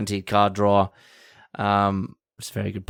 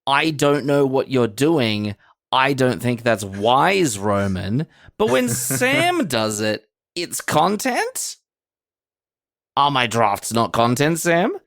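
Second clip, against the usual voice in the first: imitating Roman; 2 semitones higher, slower than usual. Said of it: "Roman says".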